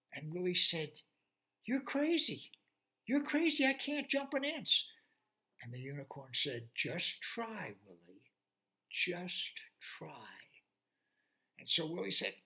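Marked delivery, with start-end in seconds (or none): 1.6-4.9 high, squeaky-loud pig disbelief; incredulous pig. Acted. Pig telling the unicorn he's crazy, high and incredulous. 6.7-10.5 whisper. Acted. Unicorn coaxes softly.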